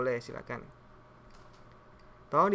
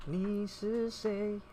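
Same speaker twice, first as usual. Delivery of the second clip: very slow Mandarin "Ni shi shei?"; 6 semitones higher, much slower than usual. Shown as a demonstration. Teacher drills the plain question very slowly for students. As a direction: drag out "Ni shi shei?" syllable by syllable. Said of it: "Apa bedanya?".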